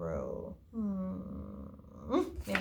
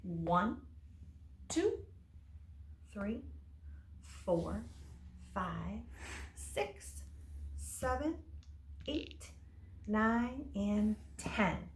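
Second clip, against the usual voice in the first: counting aloud; 7 dB quieter, much slower than usual. Shown as a demonstration. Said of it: "So we have zero".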